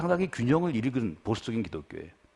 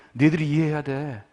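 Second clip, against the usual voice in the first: 흥분한 감독을 가볍게 흉내 낸 말투; 작전 지시하는 감독을 흉내 내듯 조금 들뜨게; 3 semitones higher, 3 dB louder than usual. Retold or imitated. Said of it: "너무 흥분해가지고 얘기도 못해요". (흥분해서 말도 잘 못하는 감독 흉내)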